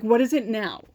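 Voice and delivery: mildly exasperated vice principal, retold; annoyed. Vice principal to student asking to skip the trip, annoyed. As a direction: imitate an annoyed school official. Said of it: "she's, like, annoyed".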